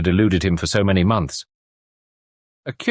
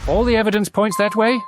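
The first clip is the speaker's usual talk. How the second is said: higher, lightly voiced wife; a woman's dry answer; wife's voice. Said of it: "replied his wife".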